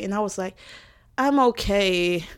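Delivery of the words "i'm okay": slow, unconvincing reassurance; retold not-okay voice. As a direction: imitate claiming to be fine, drawn out. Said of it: "you don't sound like you're okay".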